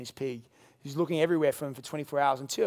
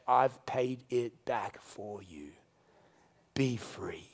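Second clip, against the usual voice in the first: soft, slow, fading to a whisper; tender reassurance; 6 semitones lower, 4 dB quieter, much slower than usual. Acted. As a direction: tell them gently they are free. Christ's words, tender.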